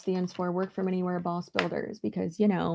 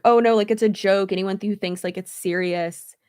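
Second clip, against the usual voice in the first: mocking quote; 7 dB louder than usual. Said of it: "they started saying".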